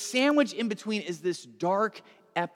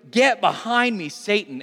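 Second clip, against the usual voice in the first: raised-voice stern command; shouted rebuke; 3 semitones higher, 5 dB louder than usual. Acted. Jesus goes right back at Peter, shouted rebuke. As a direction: push back hard, toe-to-toe. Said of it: "imagine this shouting match".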